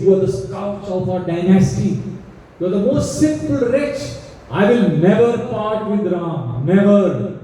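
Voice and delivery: cursing. Acted. King cursing Kaikeyi for her demand, mild anger. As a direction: spit out the curse at her. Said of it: "he starts cursing her".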